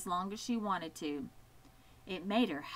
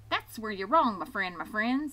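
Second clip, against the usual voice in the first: chattering goose; 3 dB louder than usual. Acted. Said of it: "who talked rather fast".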